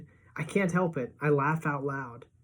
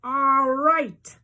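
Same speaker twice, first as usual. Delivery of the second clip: high, loud cheer; thrilled, high-pitched yell; excited shout; 10 semitones higher, 7 dB louder than usual. A narrator's reading. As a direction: whoop it out high and loud over the fireworks. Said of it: "Freak is shouting".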